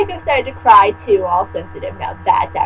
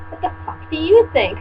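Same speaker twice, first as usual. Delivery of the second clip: mock angry retort; 6 semitones higher than usual. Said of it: "I asked angrily".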